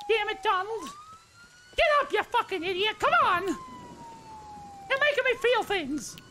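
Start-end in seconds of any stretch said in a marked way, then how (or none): 3.4-6.2 high, slow, soft falsetto wail; mock emotional falsetto. Pleading over a fallen friend, slow falsetto. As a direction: stretch it out in a hammed-up high voice.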